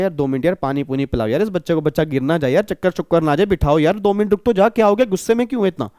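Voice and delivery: soothing. Retold or imitated. Shopkeeper calming angry customer.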